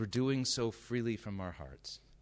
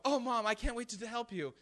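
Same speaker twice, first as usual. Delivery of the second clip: high, mock-eager child's voice; 13 semitones higher than usual. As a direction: gush like an overly helpful kid. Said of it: "Do you sit there and go".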